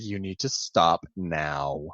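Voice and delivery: low, slow warning; unamused wife. Acted. Wife shutting down her husband's pun, unamused. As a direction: imitate a fed-up wife, very slowly.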